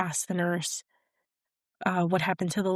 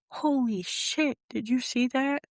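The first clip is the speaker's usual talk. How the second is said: stunned exclamation; 5 semitones higher than usual. Retold or imitated. Dad stunned after demon vanishes.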